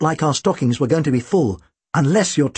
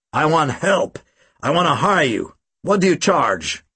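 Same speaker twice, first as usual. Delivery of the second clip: put-on American accent. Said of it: "He spoke with an American accent".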